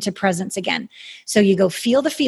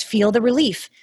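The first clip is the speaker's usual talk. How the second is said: airy breathy mystical healer. Acted. Guides a relief meditation.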